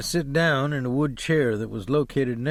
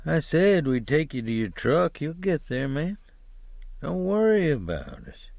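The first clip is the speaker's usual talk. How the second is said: lightly voiced driver brushing off the request, rising high at the end; a hint of a soothing but pushy hippie; insistent driver; 3 semitones higher than usual. Driver telling the hitchhiker not to worry, mildly pushy.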